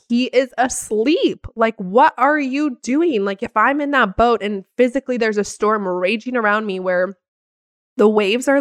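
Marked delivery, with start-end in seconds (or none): 1.8-3.2 higher, drawn-out exasperated question; frustrated. Acted. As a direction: act out mild angry disbelief, slowly. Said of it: "our anger and our frustration".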